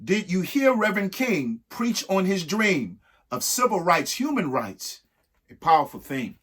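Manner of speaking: measured, sing-song reading of an alphabet rhyme; rhyming read-aloud. Acted. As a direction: read it like a picture book for kids. Reads an ABC poem aloud.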